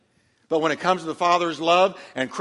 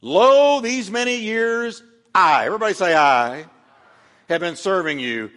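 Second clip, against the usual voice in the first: whiny complaint; 3 dB louder than usual. Acted. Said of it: "Listen to what he dumps on the father".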